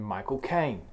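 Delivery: slowed put-on London accent; Michael Caine. Shown as a demonstration. Showing friend the actor's accent, imitated London. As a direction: imitate the actor's measured British delivery. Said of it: "That's how Michael Caine talks".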